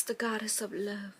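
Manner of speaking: breathy whispered aside. Acted. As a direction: whisper it like a secret. Whispered aside about Venus.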